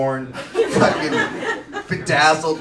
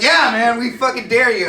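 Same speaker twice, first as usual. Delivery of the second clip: rowdy buddies egging on; 6 semitones higher, 6 dB louder than usual. Retold or imitated. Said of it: "They're like".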